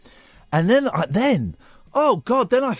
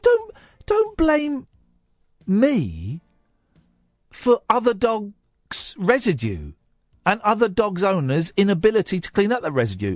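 indignant retort; 7 semitones higher than usual. Retold or imitated. To the neighbour at her door, mock-indignant retort. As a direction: protest your innocence, hammed-up. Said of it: "I said".

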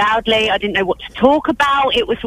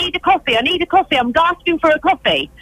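higher-pitched, insistent plea; urgent demand; 4 semitones higher than usual. Acted. Reporter pleads with cafe staff for coffee, acted urgency. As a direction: press for it with put-on urgency. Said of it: "Tell her it's really urgent".

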